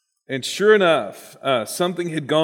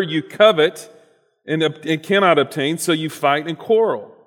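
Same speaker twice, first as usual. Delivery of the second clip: scripture reading; 2 semitones higher than usual. Acted. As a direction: read the verses out with weight. Reads the scripture passage aloud.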